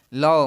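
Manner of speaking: "लो" isolated, with a clear o vowel; teacher picking out the o in "लो"; syllable demonstration. Shown as a demonstration. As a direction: sound out "लो" as its own syllable. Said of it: "ओ का भी sound produce हो रहा है".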